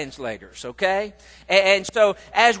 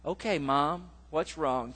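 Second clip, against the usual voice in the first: calm demeanor; 3 semitones lower, 8 dB quieter than usual. Retold or imitated. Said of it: "tries to maintain his calm demeanor".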